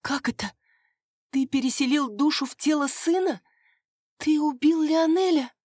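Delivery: high, aghast voice; horrified questions. Acted. Maria confronts the father over her dead brother, high and horrified. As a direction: ask it as if the floor gave way.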